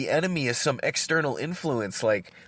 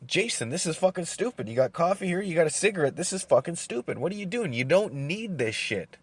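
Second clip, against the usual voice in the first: higher, scolding voice of his own brain; inner voice scolding; 4 semitones higher than usual. Retold or imitated. Man voicing his brain scolding him over coffee and cigarettes, scolding higher voice. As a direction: nag yourself like a stern inner voice. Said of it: "my brain is telling me".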